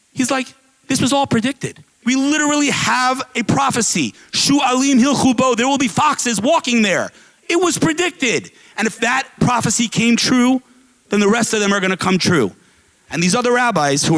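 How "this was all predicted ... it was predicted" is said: higher-pitched, emphatic retold argument; insistent explaining. Rabbi explains to weeping elders why he laughs, insistent. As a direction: press the point home as the rabbi.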